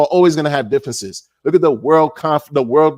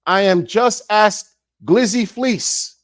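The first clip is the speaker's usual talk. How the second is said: mock grifter confession; 6 semitones higher, slower than usual. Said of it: "put everything on the table and say".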